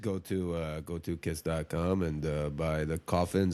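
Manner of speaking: lightly voiced low rock-star pitch; a hint of a band frontman selling merch; rock-star impression. Podcaster mimics a rock star hawking coffins, lightly voiced. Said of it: "I don't know why I had a little accent there".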